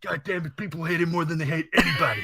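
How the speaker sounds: fast, shouting and breaking into laughter; a Triple H rant that cracks into laughter; Triple H impression. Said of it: "He actually sounds like Triple H".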